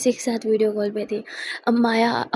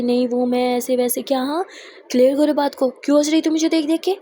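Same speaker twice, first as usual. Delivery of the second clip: pressing demand; 4 dB louder than usual. Acted. Charu pressing Akshu to explain her laughing, loud and sharp. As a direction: make her explain now.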